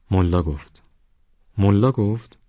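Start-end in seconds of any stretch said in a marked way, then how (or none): 1.6-2.4 higher-pitched questioning «ملا گفت؟»; surprised echo question. A narrator's reading. Ismail questions Chouli's answer, surprised. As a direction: repeat it back as a surprised question.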